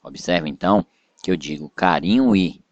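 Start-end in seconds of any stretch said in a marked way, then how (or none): 1.7-2.6 "carinho e" linked with no break between the final vowel and "e"; vowels run together. Shown as a demonstration. Teacher demonstrating elision, vowels of "carinho e" run together. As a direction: glide straight from "carinho" into "e". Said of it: "os sons se emendam".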